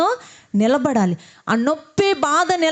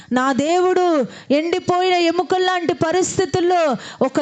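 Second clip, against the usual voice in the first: fervent prayer. Acted. Pastor leading the kneeling congregation, rising fervent prayer. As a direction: lead the people in fervent prayer.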